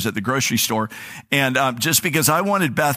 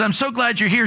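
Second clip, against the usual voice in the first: imitating a neighbor's thick New York accent, higher and calling out; a gushing New York shop clerk calling out, higher; 9 semitones higher than usual. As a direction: do her big friendly New York greeting, called out high. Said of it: "she has this very thick".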